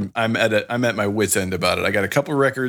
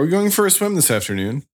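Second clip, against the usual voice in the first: higher mock British question; imitated British accent; 8 semitones higher than usual. Co-host mimics the daughter asking about swimming, mock British accent. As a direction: put on a British kid's voice, pitched up. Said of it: "My kid now speaks in a British accent".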